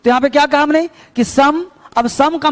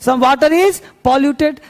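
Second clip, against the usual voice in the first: 1 slow dictation; much slower than usual. Shown as a demonstration. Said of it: "बस में लो, तो".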